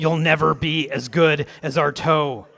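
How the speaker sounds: put-on drunken-sounding, loud, slow heckling yell.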